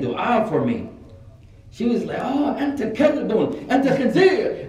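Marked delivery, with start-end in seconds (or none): 2.2-4.7 high-pitched imitation of an old woman cursing; mock old-lady scolding.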